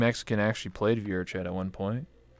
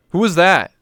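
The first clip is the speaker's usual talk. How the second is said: mock surprise; 6 semitones higher, 10 dB louder than usual. Pretending confusion about Kenny.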